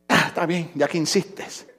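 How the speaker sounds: low, very soft giving in; mock reluctance. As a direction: give in quietly, as if reluctantly. Feigned reluctant giving in to hairdresser.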